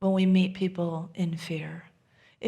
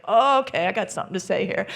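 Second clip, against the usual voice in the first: husband's energy; 4 dB louder, much faster than usual. Retold or imitated. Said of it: "like, become it".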